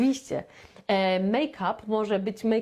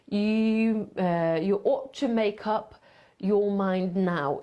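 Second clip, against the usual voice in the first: "you ought to make up your mind now" slowly, with every word linked; slow linked demo; much slower than usual. Shown as a demonstration. Teacher models the sentence slowly and linked. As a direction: spell out the linking slowly for students. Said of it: "To się łączy w jedno".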